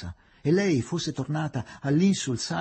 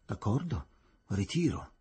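offhand, lower-key concession; nonchalant; 3 semitones lower than usual. A narrator's reading. Superintendent tells the magistrate he withdraws, nonchalant. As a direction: concede it as if it hardly matters. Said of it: "dicendo con noncuranza al magistrato".

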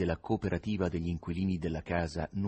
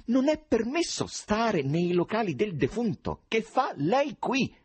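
acuto, lento, brusco; presidente villano; 13 semitones higher, 3 dB louder, slower than usual. Acted. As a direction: rimprovera scandendo piano. Nikanor villano. (il presidente caccia l'intruso, brusco e lento)

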